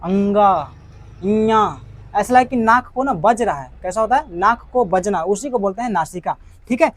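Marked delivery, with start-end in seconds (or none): 0.0-1.8 अंगा and इया said through the nose, as with a cold; nasal letters demo. Shown as a demonstration. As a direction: sound अंगा, इया as if the nose were blocked. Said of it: "जब बोलेगा ना".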